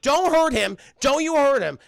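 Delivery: high, loud mock scolding; insistent hammed-up warning; protective protest. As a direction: imitate a wife defending her dog. Wife pleads in quarrel.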